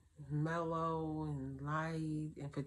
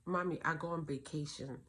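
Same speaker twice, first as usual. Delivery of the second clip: little daughter voice. Retold or imitated. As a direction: whisper it like a tiny girl playing pretend. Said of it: "she would say".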